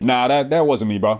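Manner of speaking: unbothered, laid-back brush-off; mock nonchalant. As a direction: shrug it off like nothing matters. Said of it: "are you trying to be nonchalant".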